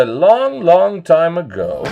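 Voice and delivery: storybook "a long, long time ago" with the first "long" stretched out; fairytale opening. Acted. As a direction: draw out "long" like a fairytale teller. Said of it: "that's better".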